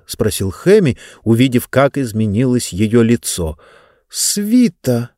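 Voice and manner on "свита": задумчиво. Acted. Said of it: "задумчиво проговорила Диба".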